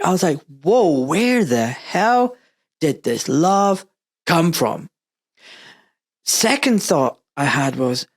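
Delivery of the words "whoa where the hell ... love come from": slow, drawn-out amazement; taken aback. Retold or imitated. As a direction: retell it as stunned wonder, stretching the words. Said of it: "quite taken aback".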